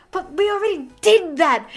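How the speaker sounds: a hint of an indignant protest; mock protest. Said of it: "And then May's like".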